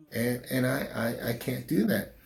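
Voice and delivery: fighting back real tears; holding back tears. Real, not acted. Father speaks of missing his kids.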